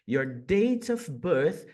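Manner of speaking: slowly stressing "Your date of birth"; slow emphasis. Shown as a demonstration. Teacher slowly repeats the phrase to explain it. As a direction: draw out the phrase to point to it. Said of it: "percebam que não é o dia".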